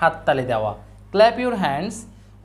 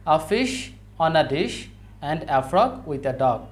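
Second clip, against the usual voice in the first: slow, each stressed word hit; stressed syllables; much slower than usual. Shown as a demonstration. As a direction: read the rhyme slowly, stressing fish and frog. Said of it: "দেখো". (ধীরে, জোর দিয়ে ছড়া পড়া)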